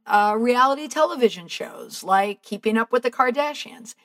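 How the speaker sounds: ordinary delivery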